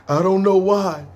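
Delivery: imitated laughing through tears; mock tearful explanation; crying laughing. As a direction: act out a confused cry-laugh. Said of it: "He's literally crying, laughing".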